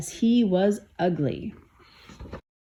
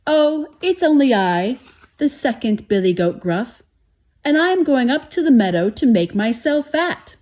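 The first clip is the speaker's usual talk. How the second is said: not-so-small voice; 5 semitones higher, 5 dB louder than usual. A narrator's reading. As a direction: middle goat, higher and louder. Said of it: "his voice was not so small".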